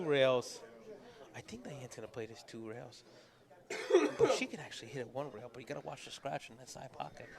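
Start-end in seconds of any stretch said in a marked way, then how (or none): 1.4-7.3 hushed. Real, not acted. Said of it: "Why are you whispering?".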